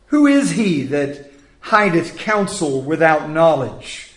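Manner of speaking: measured, solemn Bible reading; scripture reading. Acted. Preacher reading Job to the congregation, solemn.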